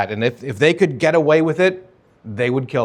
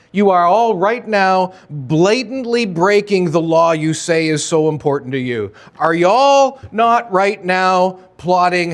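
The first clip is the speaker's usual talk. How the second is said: Jesus rebuking; 5 semitones higher than usual. Acted. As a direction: confront the hypocrites, rising as you go. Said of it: "Jesus is like".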